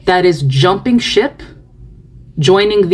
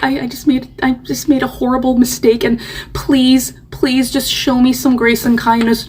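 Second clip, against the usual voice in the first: mock tearful plea; 5 semitones higher than usual. Mocking the crying video maker pleading for kindness. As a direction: beg for grace with fake tears, lightly. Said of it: "and then being like".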